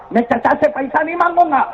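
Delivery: put-on high, pleading child through tears; boy begging his mother, high and tearful. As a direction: beg like a boy near tears. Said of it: "وہ بچہ روتا روتا کہتا ہے".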